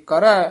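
"ਕਰੈ" said a little heavily; slightly heavy pronunciation. Shown as a demonstration. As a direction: give "ਕਰੈ" some weight. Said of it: "ਥੋੜ੍ਹਾ ਜਿਹਾ ਭਾਰਾ ਉਚਾਰਨ".

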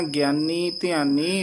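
slow "ਗਿਆਨੀ ਧਿਆਨੀ" rising to a stop; pause after ਧਿਆਨੀ. Shown as a demonstration. Teacher showing careful reading, slow rising phrase. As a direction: stretch and lift "ਧਿਆਨੀ", then rest. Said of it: "ਇੱਥੇ ਵਿਸਰਾਮ".

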